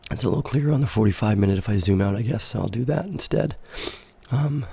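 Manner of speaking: hoarse, stuffy-nosed voice; talking through a raspy cold. Real, not acted. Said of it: "I apologize for the raspy voice and stuffy nose".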